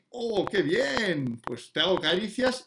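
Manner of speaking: slow, unhurried praise for the dog; relaxed praise. Shown as a demonstration. Owner calmly praises the dog after recall, slow and relaxed. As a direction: praise the dog gently and very slowly. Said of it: "un cariño relajado".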